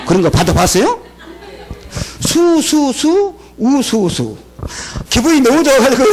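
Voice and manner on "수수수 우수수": stretched, rising sing-song; mock-proud slow chant; drawn out. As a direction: savor each syllable slowly. Drawn-out reading of report card.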